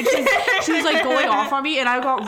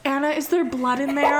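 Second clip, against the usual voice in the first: laughing while quoting; 3 semitones higher, 4 dB louder than usual. Retold or imitated. Retelling a girl's question.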